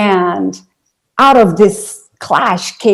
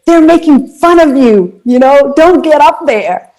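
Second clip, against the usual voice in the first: higher and a bit louder, urgent mock warning; lightly voiced boyfriend holding her back; half-acted worried boyfriend pleading with her not to go on stage; boyfriend's warning; 7 semitones higher, 5 dB louder than usual. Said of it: "boyfriend holding me back, saying".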